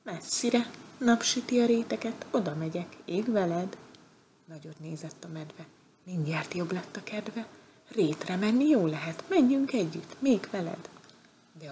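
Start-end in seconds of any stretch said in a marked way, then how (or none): 0.0-3.8 lightly voiced butterfly. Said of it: "s a lepke mondta". 7.9-10.9 eager bear. Acted. Bear eagerly asks to join.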